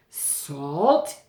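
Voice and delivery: loud, disbelieving yell of Salt?; furious king yelling at his daughter; yelled question. Acted. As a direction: bellow it back in outrage. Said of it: "he yelled".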